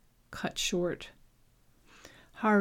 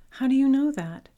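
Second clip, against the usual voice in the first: sharp shout; 7 semitones higher, 7 dB louder than usual. Acted. Sharp question mid-fight.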